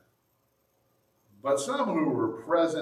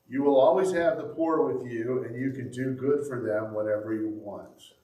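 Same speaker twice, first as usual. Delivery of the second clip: big brother voice. Acted. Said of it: "his big brother voice".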